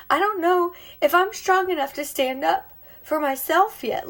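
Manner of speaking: pushing through tears, pitch climbing; emotional. Real, not acted. Woman on livestream, overcome while sharing her story, choked-up and high. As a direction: voice rising high and strained with real emotion. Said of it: "I'm getting emotional".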